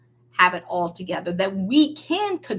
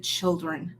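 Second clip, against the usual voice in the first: gentle address; 2 semitones lower, 5 dB quieter than usual. Retold or imitated. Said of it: "No, he said".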